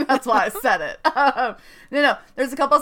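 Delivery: laughing loudly while talking, pitch up; can't stop laughing mid-sentence; giggling through the words; real laughter. Real, not acted. Laughs at her own joke.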